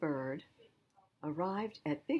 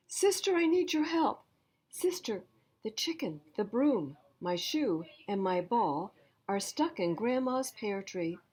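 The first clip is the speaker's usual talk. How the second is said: put-on higher child's pleading voice; child asking for help; 4 semitones higher, 3 dB louder than usual. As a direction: plead like a small kid in trouble. Jessie's plea voice.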